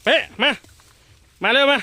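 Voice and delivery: high, loud command call. Real, not acted. Mahout commanding elephant to come, loud call.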